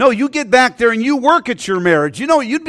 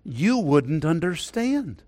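tearful reply; 2 semitones lower, 9 dB quieter, slower than usual. Retold or imitated. Weeping wife answers her husband.

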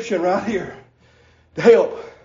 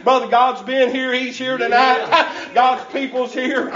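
preaching at full force; 3 semitones higher than usual. Acted. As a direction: whoop it up like a revival preacher, breath punching every line. Preacher builds into chanted preaching.

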